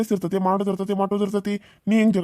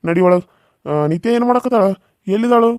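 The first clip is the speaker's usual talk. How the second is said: louder, calling across the house; 5 dB louder than usual. Acted. Uncle calls out asking where the bride is, louder. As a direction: raise the voice to call out.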